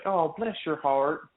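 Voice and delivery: slow, sincere "Oh, bless your heart"; a kind Southern blessing, drawn out. Retold or imitated. Southerner sincerely blessing someone, slow and kind. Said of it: "it's like".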